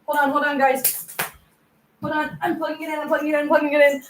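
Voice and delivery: rushed, panicky repeats; frantic hurry. Real, not acted. Phone about to shut down, frantic rushing. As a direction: race to plug in the phone before it dies.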